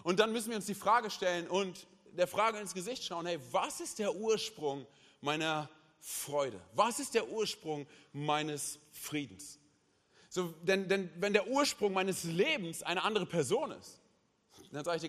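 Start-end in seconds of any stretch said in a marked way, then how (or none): 3.3-9.6 searching question. Acted. Sermon rhetorical self-question.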